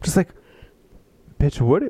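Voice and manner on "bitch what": incredulous shout. Real, not acted. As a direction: yell it in total disbelief. Outraged reaction to book passage.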